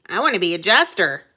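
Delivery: put-on fast, eager boy voice; eager prince. Prince telling his father his dream, fast eager boy voice. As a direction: blurt it out like a kid.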